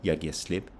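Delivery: only "slip" stressed, "Jeg giver" left unstressed. Shown as a demonstration. Teacher demonstrating Danish stress, weight only on "slip". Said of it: "you still only have stress on slip".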